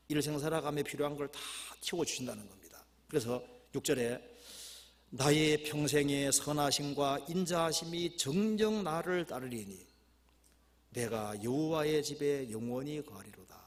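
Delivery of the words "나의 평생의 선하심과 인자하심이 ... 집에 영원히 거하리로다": slow, sustained verse reading; scripture reading. Acted. Preacher reading verse six to the congregation, solemn recitation. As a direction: intone the verse, settling at the close.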